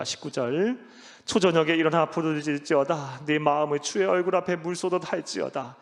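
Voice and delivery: loud, solemn scripture reading; booming biblical recitation. Acted. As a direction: proclaim the verses to the congregation. Preacher reads scripture aloud.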